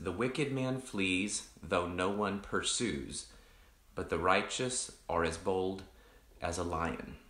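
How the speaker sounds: slow, measured recitation of a proverb; scripture reading. Acted. Pastor reciting a proverb to his online group, slow and deliberate. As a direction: read the verse slowly and deliberately.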